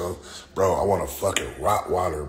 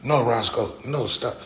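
sharp high yelling at a dog; scolding the dog; 5 semitones higher than usual. Pretend. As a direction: yell at your dog to drop it. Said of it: "I'm gonna have to be like".

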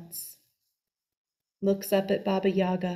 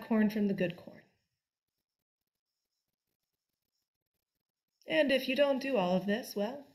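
bossy witch. Acted. Baba Yaga gives orders.

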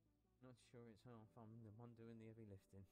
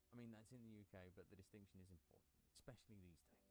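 a light posh English accent, clipped vowels. Shown as a demonstration. Player switching the character to a posh English accent. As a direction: give up on Manchester and go posh English. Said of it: "I'm just gonna go posh".

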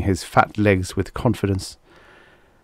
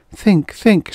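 urging herself; 12 semitones higher than usual. A narrator's reading. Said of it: "she told herself".

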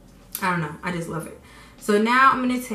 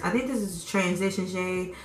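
with braces. Real, not acted. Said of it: "I can't talk with these braces".

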